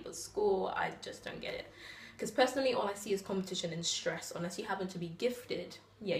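spoken-word poetry, measured phrasing; slam poem recital. Acted.

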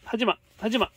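sharp loud no, repeated; loud scolding. Real, not acted. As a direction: scold the pet loudly. Scolding the pet loudly.

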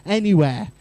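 put-on sulky teenager. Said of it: "giving me evils here".

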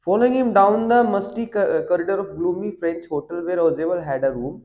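reading the English passage slowly and deliberately; slow text reading. Acted. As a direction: read each word out slowly for the class. Reads the English text aloud. (धीमी गति से पाठ पढ़ना)

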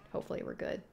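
Hopefully we're good repeated as a soft unvoiced whisper. Real, not acted. Nervous player repeating a hope, whispered. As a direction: whisper it to yourself.

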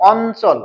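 অঞ্চল said with a dental n before the cho; n sound in অঞ্চল. Shown as a demonstration. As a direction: say অঞ্চল as "on-chol", with a clear n. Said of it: "ন বলতেছি, ইও বলতেছি না". (অঞ্চল, ঞ-এর জায়গায় দন্ত ন উচ্চারণ)

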